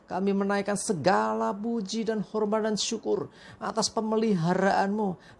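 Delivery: earnest, measured prayer voice. Acted. Pastor leading the congregation in prayer, earnest and measured. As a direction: pray aloud to the Father before the sermon.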